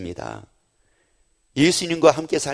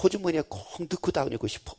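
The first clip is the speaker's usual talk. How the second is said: mock lovestruck man; 12 dB quieter than usual. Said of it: "남자들이 그럽니다".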